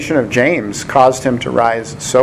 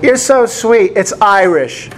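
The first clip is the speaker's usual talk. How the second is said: a higher-pitched imitated woman customer; customer's sweet correction; 6 semitones higher than usual. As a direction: lightly mimic her, pitched up. Retelling a customer's correcting reply.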